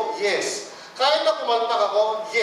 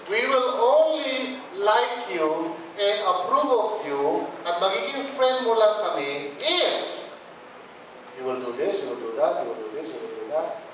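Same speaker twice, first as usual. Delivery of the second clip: mock demanding crowd; 4 semitones lower than usual. People at school and office, conditions dropping low. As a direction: dictate the conditions coldly.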